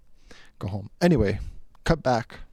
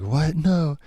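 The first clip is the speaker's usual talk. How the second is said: higher, louder mock disbelief; shocked refusal; 6 semitones higher, 6 dB louder than usual. Friend balking at a prank on a car, shocked. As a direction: act out a startled objection.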